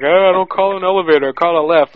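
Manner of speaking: lightly imitated British coworker; mock a British man's accent a little; British guy impression. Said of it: "He's like, 'Oh".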